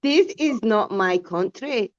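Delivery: slow accent attempt that drifts Scottish; a slow, stumbling Birmingham accent. Friend attempts a Birmingham accent, slowly. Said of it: "oh, I sound Scottish".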